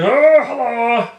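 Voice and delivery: high, loud and slow cheery hello; mock friendly greeting. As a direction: greet them with fake warmth. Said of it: "They're going".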